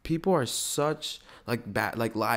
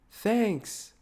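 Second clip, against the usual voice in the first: high-pitched put-on gratitude; exaggerated high "thanks"; mock thanks; 10 semitones higher than usual. Tries out an awkward thanks.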